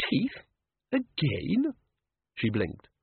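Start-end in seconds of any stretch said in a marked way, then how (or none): 0.1-1.7 high, incredulous repeat; Teeth? Again? rising in exasperated surprise; dismayed disbelief. A narrator's reading. Susan sees the teeth again, in high dismayed disbelief.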